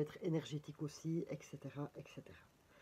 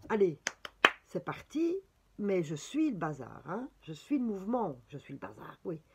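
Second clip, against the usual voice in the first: Belgian accent; 4 dB louder than usual. Real, not acted. Card reader urging herself to follow the movement, Belgian accent. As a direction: slip into a lively Belgian French accent. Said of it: "laissée un petit peu aller dans mon bel accent belge".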